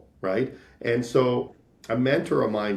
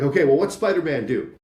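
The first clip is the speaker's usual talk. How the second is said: higher and louder, egging them on; eager salesman; 4 semitones higher, 4 dB louder than usual. Retold or imitated. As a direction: lean in, all enthusiasm about Spider-Man. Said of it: "And it was like".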